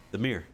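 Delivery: "mirror" shortened to "meer"; one-syllable Michigan pronunciation. Shown as a demonstration. Streamer demonstrating the local word, one-syllable "mirror". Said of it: "That's what we say".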